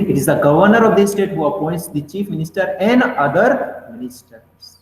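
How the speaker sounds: very slow, word by word, like dictating to a class; slow dictation reading. Shown as a demonstration. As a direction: read the English line slowly so students can note it down. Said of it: "teacher repeats English definition". (धीमे-धीमे dictation की तरह पढ़ते हुए)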